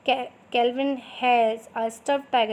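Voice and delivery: the phrase read through in one slow run; now read it back as one line. Shown as a demonstration. Teacher rereading the dictated phrase slowly in one go. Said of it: "थोड़ा मैं slow slow बोलूँगी".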